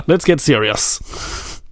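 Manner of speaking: drawn-out mock-stern line; slow it down for mock gravity; slow mock seriousness. Host drafting a message live on air, slow mock seriousness.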